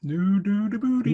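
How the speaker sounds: hammed-up Canadian "aboot"; mock Canadian accent. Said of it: "That's what a Canadian says".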